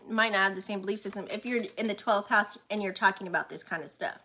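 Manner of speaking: talking around a dental retainer; slightly slurred with a retainer; retainer in mouth. Real, not acted. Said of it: "Sorry, I have my retainer on".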